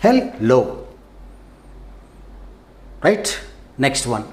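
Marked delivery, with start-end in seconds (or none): 0.0-0.6 హెల్, లో in two separate beats; syllable by syllable. Shown as a demonstration. Teacher recapping two syllables, said apart. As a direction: split it cleanly into హెల్ and లో. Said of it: "two syllables".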